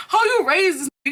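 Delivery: loud, high confrontational yell; loud high retold shout. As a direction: shout it at his mother. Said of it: "I'm like".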